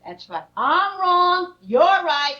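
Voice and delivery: sarcastic. Acted. Mother's sarcastic argument with daughter.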